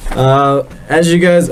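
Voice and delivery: false start. Pretend. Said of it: "Let me restart that".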